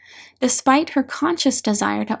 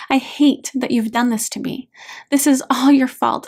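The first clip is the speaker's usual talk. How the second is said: mildly heated accusation; angry blaming. Acted. Hurt daughter accusing dad of causing her pain, angry. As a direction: lay the blame with controlled anger.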